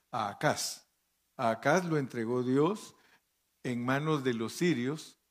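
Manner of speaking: emphatic public Bible reading; scripture reading. Real, not acted. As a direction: read the verse out firmly, phrase by phrase. Reads scripture aloud. (lectura bíblica enfática en voz alta)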